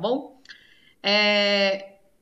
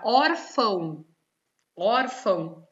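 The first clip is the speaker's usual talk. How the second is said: "órfão" devagar, com o "ór" forte; sílaba tônica destacada; much slower than usual. Shown as a demonstration. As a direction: alongue o "ór" inicial de "órfão". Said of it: "a sílaba tônica é or". (pronuncie "órfão" didaticamente, marcando o "ór")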